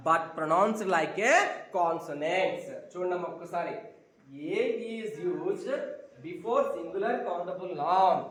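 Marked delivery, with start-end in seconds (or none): 0.1-2.6 drawn-out teaching line; slow emphatic repeat. Shown as a demonstration. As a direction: stretch each word for the class. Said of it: "repeats rule slowly". (నెమ్మదిగా నొక్కి చెప్పడం)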